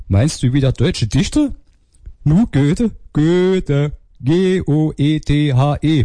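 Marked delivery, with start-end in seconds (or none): 2.2-6.0 high, slow Saxon spelling-out; Saxon accent. Acted. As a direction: spell it patiently in broad Saxon. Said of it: "kommt aus Sachsen".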